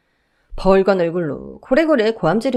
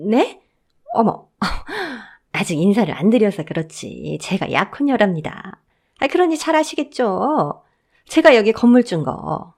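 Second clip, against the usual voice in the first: fawning sweet talk. Acted. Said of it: "조용조용 말을 건넸습니다".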